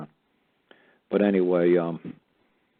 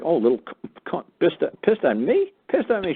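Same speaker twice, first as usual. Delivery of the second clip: squeaky, much higher mock outrage; mocking the clerk; 11 semitones higher, 4 dB louder than usual. Mimicking the clerk who hung up, a high squeaky mock huff. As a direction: parody her huffiness in a high squeak.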